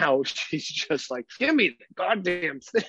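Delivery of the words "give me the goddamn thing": put-on higher, impatient baby voice; a fed-up toddler wanting it now; mock toddler demand. Voicing toddler demanding again.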